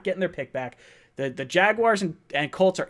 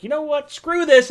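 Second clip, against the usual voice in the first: much higher and louder, mock fed-up; retold outburst; 9 semitones higher, 9 dB louder than usual. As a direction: throw it all aside in a burst. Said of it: "and I was like".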